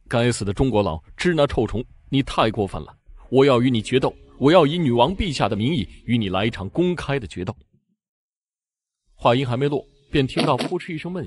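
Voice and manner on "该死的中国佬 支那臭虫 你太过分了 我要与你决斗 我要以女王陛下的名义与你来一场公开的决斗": mild angry challenge. Acted. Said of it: "丽丝大怒道".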